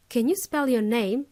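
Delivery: short and direct, a bit demanding; blunt direct question. Shown as a demonstration. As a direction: ask it bluntly, as a plain demand. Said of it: "a direct way of asking".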